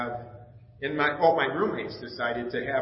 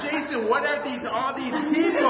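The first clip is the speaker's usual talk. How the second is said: much higher, louder, half-laughing disbelief; stunned surprise; 11 semitones higher, 5 dB louder than usual. Retold or imitated. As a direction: gasp it out at the unexpected crowd. Shocked at crowd in church.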